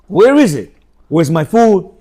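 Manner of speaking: slow, pointed mock demands; demanding husband. Husband coming home demanding from wife, mock bossy. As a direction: play the spoiled husband barking for service, drawn out.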